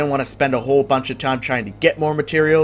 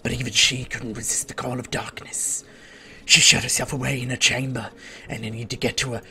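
soft, hushed storyteller elf; quest-giver voice; 3 dB quieter than usual. Acted. Elf telling the player the queen's story, hushed. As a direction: murmur the lore like a secretive elf. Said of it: "Sorry, that was me. I don't know why I talk like that".

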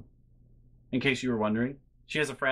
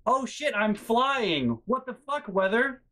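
mock panic; 8 semitones higher, slower than usual. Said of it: "she's screaming like".

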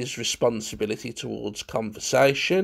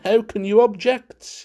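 high, louder baffled question; puzzled; 9 semitones higher, 6 dB louder than usual. A narrator's reading. Munt puzzled by the prattling guest, baffled question. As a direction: begin a puzzled protest. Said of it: "Munt looked puzzled".

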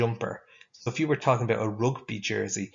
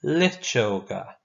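slow, clear Irish word for the class; slow model word; slower than usual. Shown as a demonstration. Teacher modelling a new Irish word slowly. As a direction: drag each syllable out for them to copy. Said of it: "We're gonna say them all again".

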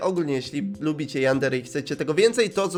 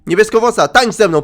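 loud, raised playful shout; calling out; 4 semitones higher, 6 dB louder than usual. Pretend. Player calls blue-haired girl to dance, playful shout. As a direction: shout it across to get her dancing.

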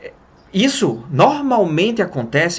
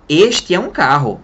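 slow, louder, word-by-word classroom drill; slow drill translation; 4 dB louder than usual. Shown as a demonstration. Teacher mocking school drills, slow and deliberate. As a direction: spell it out like an old-school teacher. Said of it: "Alguém ensinou português pra você assim?".

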